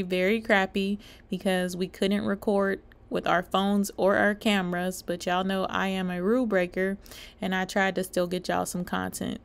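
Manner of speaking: quiet aside to the camera; hushed. Real, not acted. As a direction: keep it down, audience around. Hushed inside the hypnosis show.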